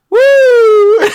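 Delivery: a very high, loud surfer whoop; surfer woo. Retold or imitated. Ex-meth user describing the high with a high, loud surfer woo. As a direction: let out a wild surfer cheer. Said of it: "you just hear".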